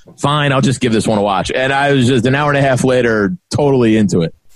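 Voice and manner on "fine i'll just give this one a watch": usual speaking voice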